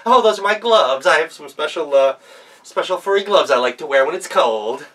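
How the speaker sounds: high, loud stammering cover-up; a wolf bluffing fast, then a nervous laugh; wolf caught out, stalling with excuses; flustered fake grandma. Wolf explains away its fur.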